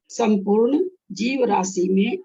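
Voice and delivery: slow, deliberate reading pace. Shown as a demonstration. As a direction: read it slowly, word by word. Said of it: "देखिए, ऐसे पढ़िएगा".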